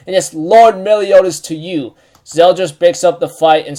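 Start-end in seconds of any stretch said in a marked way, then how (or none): 0.1-1.9 mildly indignant retort; acted-out huffy correction; upset character, imitated. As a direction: scold in mock offence, with a light touch. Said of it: "gets all upset and says".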